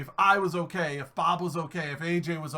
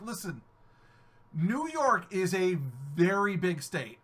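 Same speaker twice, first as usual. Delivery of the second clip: slow, patient lecturing; patiently setting the guild straight; patient explaining; slower than usual. Retold or imitated. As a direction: spell it out slowly for them. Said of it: "I'm like".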